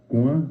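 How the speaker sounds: "cuá" said slowly, its final A nasal. Shown as a demonstration. Teacher explaining Guaraní words, slow "cuá" with a nasal A. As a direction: draw out "cuá" with a nasal A at the end. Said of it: "la A final es nasal".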